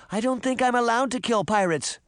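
put-on high-pitched girl's call; calling after. A narrator's reading. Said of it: "Daphne called after him".

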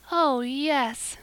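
a dreamy, happy sigh; blissful sigh. A narrator's reading. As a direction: breathe it out in bliss. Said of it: "sighed Anne".

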